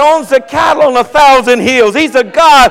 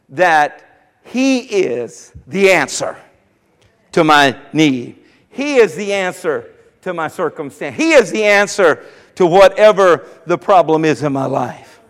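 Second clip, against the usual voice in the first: meditative; 5 semitones lower, 3 dB quieter than usual. Shown as a demonstration. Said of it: "To meditate".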